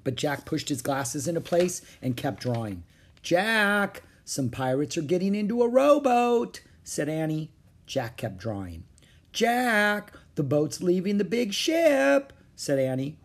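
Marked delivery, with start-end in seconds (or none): 3.2-6.6 put-on high, urgent child's warning. Annie alerting Jack to approaching pirates, urgent warning. 9.3-12.3 high, insistent call; urgent warning. Acted. Annie alerting Jack that the boat is coming, urgent warning.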